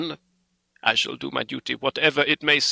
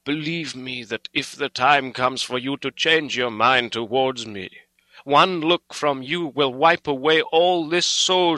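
impassioned, sorrowful appeal, pitch rising; full of pity; 5 semitones higher, 6 dB louder than usual. A narrator's reading. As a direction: plead earnestly, building in fervour. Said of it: "went on with a voice full of pity".

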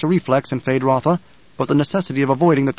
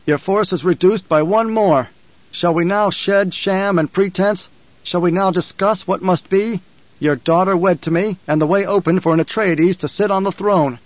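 put-on commanding young duke; 4 semitones higher than usual. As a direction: claim the throne calmly. Paul addresses the Emperor.

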